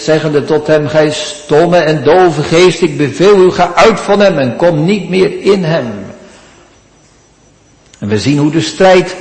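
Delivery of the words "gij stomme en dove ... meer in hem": stern rebuke. Acted. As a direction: order the spirit out with authority. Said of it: "Hij bestraft de onreine geest".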